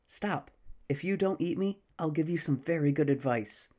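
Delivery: frightened squirrel voice. Acted. Squirrel pleading for its life.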